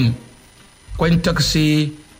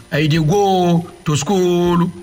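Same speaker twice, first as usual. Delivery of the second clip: childlike mockery; slower than usual. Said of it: "adult man will be speaking like children's way".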